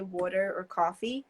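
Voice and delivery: "water or coffee" in a New Jersey accent. Shown as a demonstration. Recalling being made fun of, New Jersey accent. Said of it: "was made fun of that".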